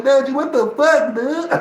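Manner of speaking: high, loud mock of his homie; imitating his friend. Vlogger imitating his homie's reaction, high and loud. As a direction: squeal it like his buddy. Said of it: "he told like this".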